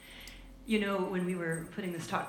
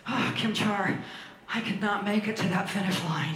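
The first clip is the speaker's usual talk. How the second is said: mock discouraged friend. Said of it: "it would look something like this".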